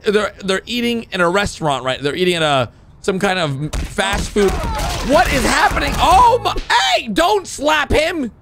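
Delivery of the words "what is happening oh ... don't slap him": high, incredulous outburst; shocked protest. Real, not acted. Reactor objects to a slap, shocked. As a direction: exclaim in baffled alarm.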